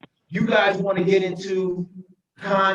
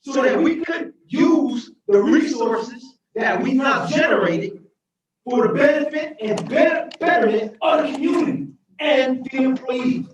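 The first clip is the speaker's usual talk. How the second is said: mayor pleading with the council, raised and emotional; impassioned; 4 semitones higher than usual. Real, not acted. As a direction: drive the point home with real passion. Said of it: "I'm getting emotional because".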